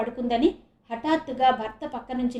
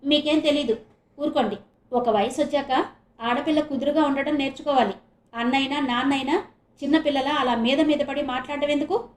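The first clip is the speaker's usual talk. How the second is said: snapping at husband; 3 semitones higher than usual. Acted. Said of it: "అని భర్తని కసిరింది".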